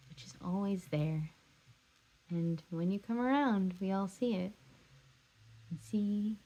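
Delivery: subdued, tender confession with long pauses; loving, hurt Evie. Acted. Acted love monologue as Evie.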